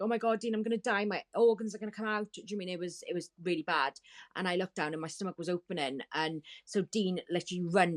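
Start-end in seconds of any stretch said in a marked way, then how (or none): 0.0-2.3 mock panicked plea, higher pitched; retold panicked cry. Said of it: "I was screaming and screaming and screaming".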